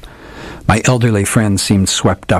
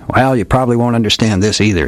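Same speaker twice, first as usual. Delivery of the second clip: lightly voiced old detective, a bit higher, grand and theatrical; hardboiled old detective; 3 semitones higher than usual. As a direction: play the old gumshoe spinning a dramatic yarn. Old detective tells his tale.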